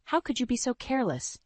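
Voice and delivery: sharp, high accusing question; angry scolding. Acted. Husband scolding his wife over the broken glass, angry. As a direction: scold her for the mess.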